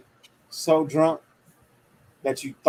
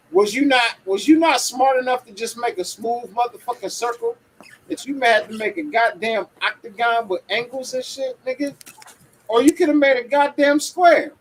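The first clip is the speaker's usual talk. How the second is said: exasperated rant; 6 semitones higher, 4 dB louder than usual. Real, not acted. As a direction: rant at the designer in disbelief. Drunk rant about stop signs.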